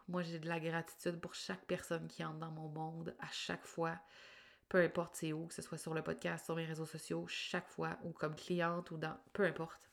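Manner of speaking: stuffy nose after crying; blocked nose. Real, not acted. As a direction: talk through a blocked nose, teary. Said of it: "j'ai le nez bouché parce que j'ai pleuré". (nez bouché après avoir pleuré)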